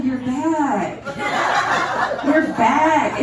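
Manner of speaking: "back" with a long, open short-a as in ass; corrected vowel. Shown as a demonstration. Wife corrects husband, stressing the ass sound in "back". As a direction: spell out the vowel in "back" as if teaching. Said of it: "The A is like an ass sound".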